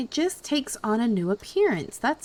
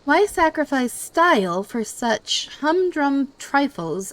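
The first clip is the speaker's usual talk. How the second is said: haughty voice; 4 dB louder than usual. Acted. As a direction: look down your nose at them. Reading snooty NPC dialogue aloud.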